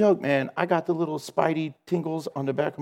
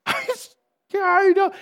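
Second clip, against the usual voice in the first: voice answering; 13 semitones higher, 4 dB louder than usual. Retold or imitated. The hidden voice answering him.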